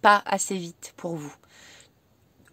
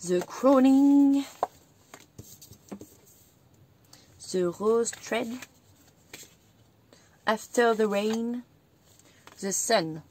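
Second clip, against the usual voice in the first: card titles read slowly in English with a French accent; slower than usual. Shown as a demonstration. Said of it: "Vous m'excuserez pour mon accent anglais".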